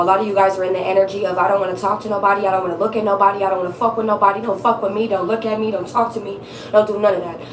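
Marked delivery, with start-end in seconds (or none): 1.4-7.4 rapid-fire refusals at a low pitch; mock defensive. Reader voicing her defensive viewers' energy, defensive. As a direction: run the refusals together, lightly guarded. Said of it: "extremely defensive right now".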